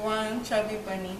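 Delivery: talking through marshmallows; mouth full. Real, not acted. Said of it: "and then you put them in your mouth".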